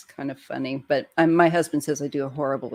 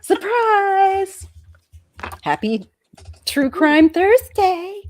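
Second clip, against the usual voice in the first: high, loud, slow showman cheer with a laugh; excited announcement; 14 semitones higher, 7 dB louder, much slower than usual. Real, not acted. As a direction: announce the show like a party host. Opening the show, cheering.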